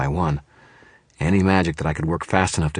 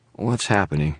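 frightened; 2 semitones higher than usual. A narrator's reading. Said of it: "Confusion and fear trembled in Murphy's voice".

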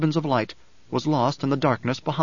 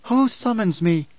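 high, ringing demand; oracle's challenge; 8 semitones higher than usual. A narrator's reading. Alia answers a cry from the crowd, imperious.

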